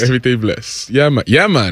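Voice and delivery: laid-back Jamaican patois demo; Caribbean patois. Shown as a demonstration. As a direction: model the island phrase in Caribbean patois. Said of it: "I want you to say everything bless".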